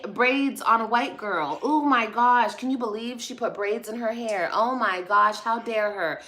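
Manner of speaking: exaggerated gasping-gossip shock; mock outrage. Mimicking people appalled by braids on a girl, mock outrage. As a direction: hit each exclamation in sarcastic horror.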